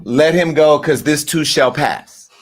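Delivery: a touch of slow, patient calm; lightly voiced inner saint, slowing down; calm inner Christian. The Christian in him telling himself to let it go, calm and slow. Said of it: "The Christian in me said".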